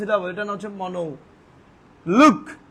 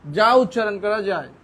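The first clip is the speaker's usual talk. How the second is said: slow dictation; much slower than usual. Shown as a demonstration. Teacher slowly dictating a definition.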